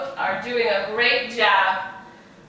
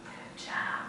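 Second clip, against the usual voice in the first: faint whispered good job; whispered praise; 15 dB quieter than usual. Real, not acted. Teacher praising the children slithering, whispered. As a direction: barely breathe the praise.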